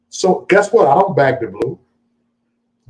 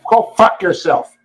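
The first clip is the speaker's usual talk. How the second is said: higher, drawn-out Boston accent impression; hammed-up Boston imitation, pitched up; mock Boston accent; 6 semitones higher, slower than usual. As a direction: exaggerate a Boston accent, stretching the words. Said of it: "That fucking goddamn Boston accent".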